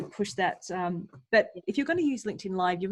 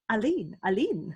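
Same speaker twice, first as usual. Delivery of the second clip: French accent; slower than usual. Shown as a demonstration. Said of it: "I wanna say with a French accent".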